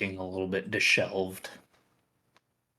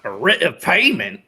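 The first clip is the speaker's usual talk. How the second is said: surprised question; 8 semitones higher, 9 dB louder than usual. Acted. Shopkeeper surprised by writ.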